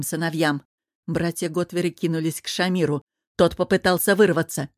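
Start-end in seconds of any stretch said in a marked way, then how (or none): none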